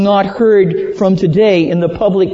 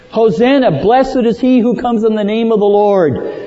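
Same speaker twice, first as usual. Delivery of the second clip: mild mock shout; 5 semitones higher than usual. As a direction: proclaim it like a crowd, without truly shouting. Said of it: "they shouted".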